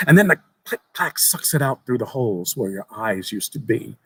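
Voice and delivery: lightly voiced young boy. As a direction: tell it like an eager child sharing a secret. Boy describes gore.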